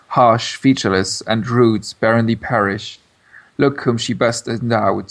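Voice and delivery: measured poetry reading; reciting a sonnet. Shown as a demonstration. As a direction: read the sonnet with its meter. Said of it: "you reading that there's a meter that came through".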